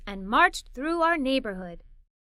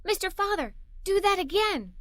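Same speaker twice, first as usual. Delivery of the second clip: exclamation; 5 semitones higher than usual. Acted. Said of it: "I exclaimed".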